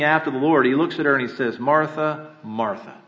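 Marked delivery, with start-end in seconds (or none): 1.6-2.9 soft, tender call, fading to near silence on the second name; quiet, humble love. Retold or imitated. Jesus gently calling Martha, quiet and loving. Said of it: "he said it in quiet, humble love".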